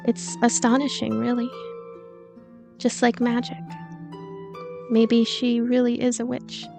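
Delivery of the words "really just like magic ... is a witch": usual speaking voice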